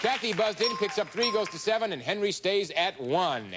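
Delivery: excited. Real, not acted. Host calling game scores.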